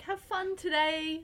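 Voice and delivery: lilting mock pep talk from mum; encouraging mum. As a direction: lightly imitate mum pumping you up. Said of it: "she's always there to pump you up".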